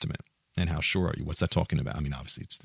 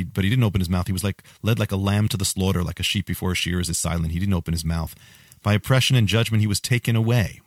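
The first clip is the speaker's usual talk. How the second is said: fervent scripture reading; 4 dB louder than usual. Acted. Continues the passage reading.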